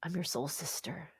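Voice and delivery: low, very soft murmur; imitated confiding. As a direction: say it quietly, like a secret bond. Retold stranger confiding in her.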